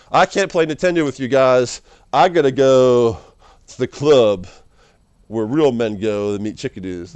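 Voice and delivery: loud whiny impression of a bored friend; hammed-up complaining buddy; bored gamer friend mocked, whining and loud. Mocking a friend who quits.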